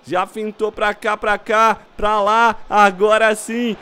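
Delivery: ordinary delivery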